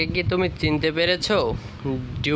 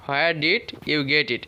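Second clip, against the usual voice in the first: slowly and clearly, word by word; slow it down so learners can follow; slow model reading; much slower than usual. Shown as a demonstration. Teacher repeating the question for students, slowly. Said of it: "এইভাবে করব".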